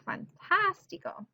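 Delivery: "fantástico" slowly, high on the "tás"; stress on third-from-last syllable. Shown as a demonstration. Teacher relishing the example, "fantástico" stressed high on "tás". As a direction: lift and stretch the "tás" of "fantástico". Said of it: "Stress is on the third from last syllable".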